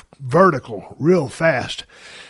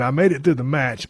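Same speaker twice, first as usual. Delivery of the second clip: usual speaking voice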